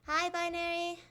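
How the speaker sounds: high, loud, excited hello; excited greeting. Real, not acted. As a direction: call out a delighted hello to an arriving friend. Greets arriving viewer by name.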